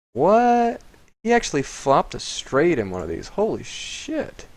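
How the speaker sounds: high, stunned disbelief; holy shit drawn out slow and high; real shock. Real, not acted. Opponent flops a straight.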